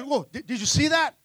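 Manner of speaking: stammered, lightly acted alarm; freaking out. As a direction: play a spooked disciple, tripping on the words. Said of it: "to freaking out".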